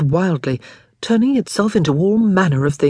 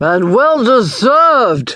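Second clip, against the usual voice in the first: put-on loud, tipsy, drunken shout; 4 semitones higher, 5 dB louder than usual. Someone on a bench calls out as the caged creature thrashes, shouting. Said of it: "shouted someone from a bench".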